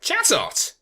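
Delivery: breathy hushed "Chatot!"; whisper. Acted. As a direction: whisper it sharply. Sudden whisper of a name.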